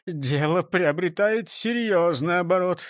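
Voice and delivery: usual speaking voice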